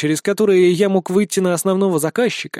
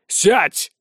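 barked; 3 semitones higher than usual. Acted. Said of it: "рявкнул на него Череп".

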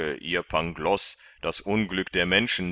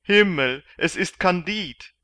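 high, much louder outcry of recognition; astonished cry; 12 semitones higher, 10 dB louder than usual. A narrator's reading. Galley slave cries out on recognizing Kandid, astonished. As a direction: burst out in shock, much higher. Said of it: "rief der eine der Galeerensklaven".

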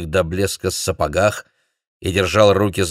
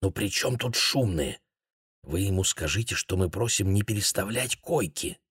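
hushed, much softer pleading; whispered; 7 dB quieter than usual. A narrator's reading. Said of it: "шепнул второй делегат".

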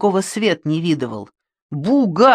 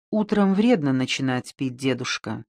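soft, peaceable reproach, fading much quieter; gently smooth things over; peaceably; 4 semitones lower, 5 dB quieter than usual. A narrator's reading. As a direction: Yulia gently calming the old shepherd. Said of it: "миролюбиво произнесла Юля".

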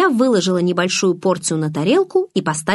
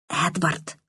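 a soft, sharp hiss of his name, much softer; 6 dB quieter than usual. A narrator's reading. Girl hisses after vanishing Edward, soft sharp hiss. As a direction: hiss his name so nobody else hears. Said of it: "зашипела я".

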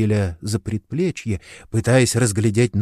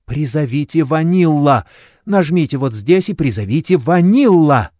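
взволнованный крик; 5 semitones higher, 4 dB louder than usual. A narrator's reading. Принцесса кричит имя демона.

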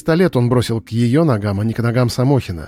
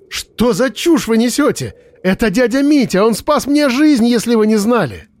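outraged; 10 semitones higher than usual. Acted. Miroslava defends her uncle against the investigator, outraged high. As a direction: fight for him with disbelief.

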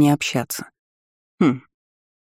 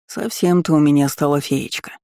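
warm. Acted. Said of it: "сказал он с теплотой в голосе".

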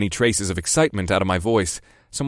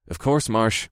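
patient; slower than usual. Acted. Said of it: "I said patiently".

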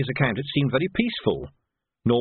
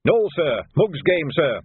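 louder, blunt soldier's reply; laconic trooper; 5 semitones higher, 4 dB louder, slower than usual. Acted. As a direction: dismiss it curtly. Trooper replies.

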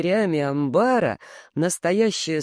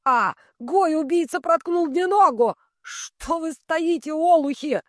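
howling in pain, pitched way up; old man bellowing; 11 semitones higher, 3 dB louder, slower than usual. A narrator's reading. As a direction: roar it out like a stabbed old man. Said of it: "старик ревел". (старик ревёт от боли)

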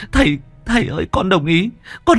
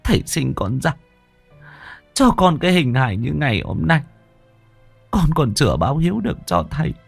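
higher, tearful daughter begging her father to stop; sobbing daughter; 6 semitones higher, faster than usual. Acted. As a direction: plead through light sobs. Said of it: "Huê khóc nấc lên".

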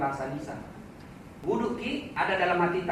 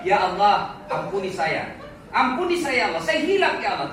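louder, laughing plea for mercy; pleading prayer; 4 dB louder than usual. Acted. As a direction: beg God for forgiveness, half laughing. Acted desperate plea for forgiveness. (memohon ampun dengan keras sambil tertawa)

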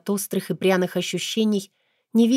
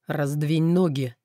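slow hoarse king's order; hoarse command; 2 semitones lower, slower than usual. Acted. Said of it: "хрипло скомандовали над ухом". (хриплый приказ)

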